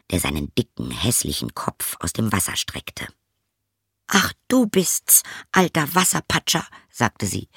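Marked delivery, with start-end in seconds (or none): 4.1-6.7 put-on high, light girlish voice, a little dismissive; a young princess shrugging at the frog. Princess brushing off the frog, high girlish voice.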